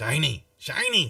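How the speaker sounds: reedy, nasally bird voice. Voicing a bird being offered a shiny bar in a tabletop game: thin nasal bird voice. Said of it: "kind of in a thin nasally voice".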